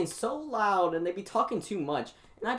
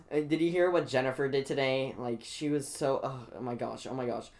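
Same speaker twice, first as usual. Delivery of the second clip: gossiping classmates; 3 semitones lower than usual. Retold or imitated. Student imitating girls gossiping about Jennifer, lightly mocking. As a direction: mimic classroom gossip, only slightly put on. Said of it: "girls over here are talking about".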